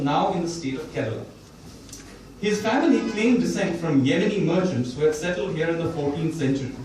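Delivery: reading a passage aloud to an audience; steady author's reading voice; book reading. Shown as a demonstration. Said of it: "I'm gonna read the very last section of the book".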